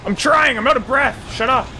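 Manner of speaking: high, loud whiny yell; exasperated protest. Pretend. Winded game character answering back, exasperated high yell. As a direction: protest loudly at a high pitch.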